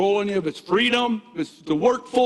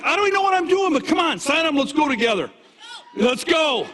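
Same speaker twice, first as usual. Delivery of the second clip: eager, higher-pitched recruiting pitch; excited pitch; 3 semitones higher than usual. Acted. Coach models a new recruiter's excited pitch to a prospect. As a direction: sound thrilled to get them signed up. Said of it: "you gotta be like".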